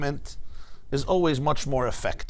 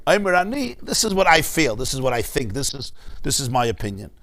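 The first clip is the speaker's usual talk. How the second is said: a gentle, tentative "Omer ani"; humble. Shown as a demonstration. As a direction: offer it as just your own view. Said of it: "It's not".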